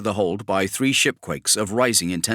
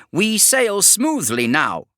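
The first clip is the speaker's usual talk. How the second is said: much higher, slow, insistent reassurance; eager Magos; 12 semitones higher, 4 dB louder, slower than usual. Acted. Columbari Ennis insists to Kravarek, much higher and eager. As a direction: convince him all is fine.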